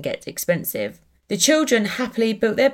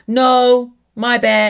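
put-on loud, higher little-boy protest in his accent; Brody's little accent; 5 semitones higher, 7 dB louder, much slower than usual. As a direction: imitate a small child loudly refusing, with a slight accent. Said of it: "in his accent, 'cause he has a little accent".

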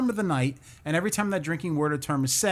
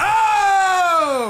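high whooping shout; loud whoop; 14 semitones higher, 8 dB louder than usual. Real, not acted. Reacting to drinking word.

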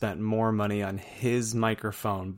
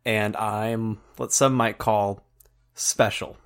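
slow deliberate; much slower than usual. Pretend. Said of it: "pretend that I'm me".

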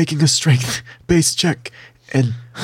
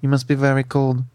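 low, deliberate creature voice; Snurf Berblin; 5 semitones lower than usual. Acted. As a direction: deliver it gravely, in a deep character voice. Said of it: "turns to you and says".

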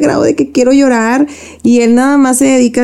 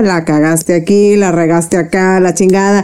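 lower, blunt imitation of a dry, cold husband; curt husband; 4 semitones lower than usual. Retelling her husband's blunt criticism, dry and cold. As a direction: she mimics her husband listing her mistakes, lightly voiced. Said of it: "él es muy seco y es muy frío".

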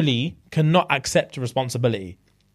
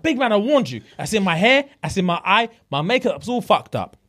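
a raised, higher-pitched mock rant; imitating angry Celine; 6 semitones higher than usual. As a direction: play her outraged complaint about the clay, voice pushed up. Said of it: "And she's like".

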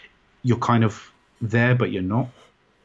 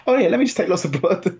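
high, offhand mock doctor voice; breezy doctor; 8 semitones higher than usual. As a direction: toss it off like a routine chore. Doctors casually taking extra blood.

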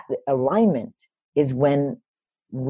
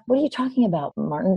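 incredulous challenge; 5 semitones higher, faster than usual. Retold or imitated. Retelling her challenge to mentor.

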